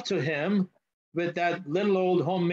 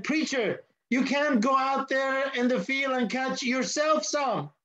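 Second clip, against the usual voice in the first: put-on much higher, incredulous boy voice; a kid baffled by the grown-up; small boy voice, amazed; boy's disbelief; 8 semitones higher than usual.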